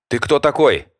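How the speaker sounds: high, loud frightened cry; scared host shouts at the intruder, high and shaky; trembling shout. Acted. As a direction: threaten with the police while terrified. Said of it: "дрожащим голосом крикнул Влад".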